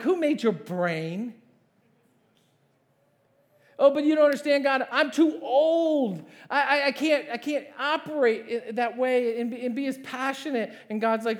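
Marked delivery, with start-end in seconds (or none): 0.0-1.3 slow, deliberate comeback; God's pointed question. Acted. 3.8-10.7 high, loud mock pleading; hammed-up, stammering objection to God; protesting excuses. Acts out more excuses to God.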